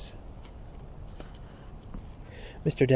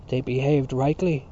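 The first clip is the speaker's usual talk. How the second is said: crying out; 3 dB louder than usual. Acted. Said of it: "cried Dante".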